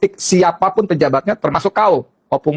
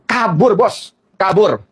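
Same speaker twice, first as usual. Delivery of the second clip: retold exclamation; 4 semitones higher, much slower than usual. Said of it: "kata si Sanana".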